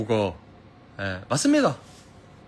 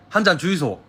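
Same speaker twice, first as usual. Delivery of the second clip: Busan dialect request, a bit higher; Gyeongsang dialect; 4 semitones higher than usual. Shown as a demonstration. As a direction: order it like a Busan regular. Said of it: "보여줄게".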